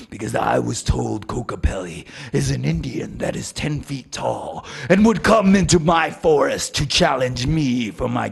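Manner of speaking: loud, taunting elk voice; mocking elk voice. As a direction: sneer at the little guy.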